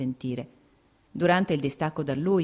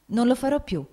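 first tearful promise; 8 semitones higher, 4 dB louder than usual. A narrator's reading. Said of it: "inghiottendo le lacrime".

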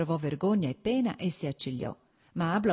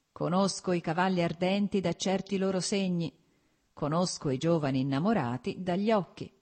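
declaiming; 3 semitones higher than usual. A narrator's reading. Friend quotes verse to the man in love, declaiming. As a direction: recite it like a couplet, understated. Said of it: "declamò Stepan Arkadych".

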